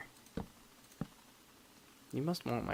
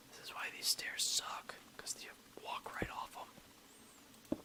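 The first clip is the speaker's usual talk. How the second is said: whispered grumble; 6 dB quieter, slower than usual. Real, not acted. Muttering after falling.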